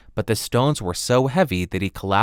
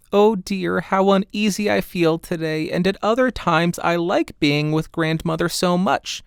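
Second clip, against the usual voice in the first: put-on higher, uneasy little girl voice; a small girl fretting to herself; higher young girl, a touch uneasy; little girl Redcap; 8 semitones higher than usual. Redcap's voice in narration.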